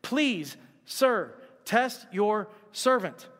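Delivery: slow, spaced-out deferential request; polite pleading. Acted. Daniel repeats his plea to the guard, slow and deferential. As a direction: make each polite word count, slowly. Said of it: "It's just please and thank you".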